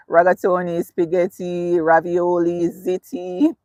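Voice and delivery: lightly attempted Italian accent on pasta names. Shown as a demonstration. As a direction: try each pasta name with a hint of Italian. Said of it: "said those words in the Italian accent".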